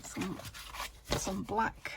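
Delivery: talking through hiccups. Real, not acted. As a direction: speak between hiccups.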